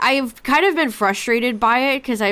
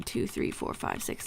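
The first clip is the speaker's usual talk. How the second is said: whispering; 14 dB quieter than usual. Real, not acted. Counting down quietly on stream.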